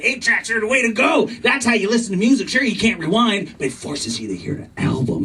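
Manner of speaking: lightly voiced old purist laying down the law; a hint of a cranky old-timer, pitch lifting as he insists; old guy preaching his music habits; crabby old guy. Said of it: "like old guys were back in the day".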